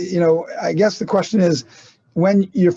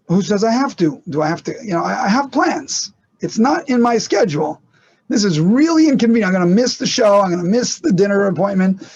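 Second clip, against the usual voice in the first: indignant objection; 3 semitones higher than usual. Acted. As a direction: play someone grumbling about an inconvenient duty. Acts out a reluctant bystander with plans.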